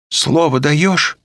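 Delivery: high, slow cautious ask; wary question. A narrator's reading. Olga asks Vitalya for his word, wary. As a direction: make him promise.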